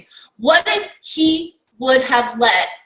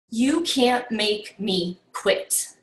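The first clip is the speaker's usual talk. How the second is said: quiet determination; 3 semitones lower, 6 dB quieter, slower than usual. Retold or imitated. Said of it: "player's reply repeated".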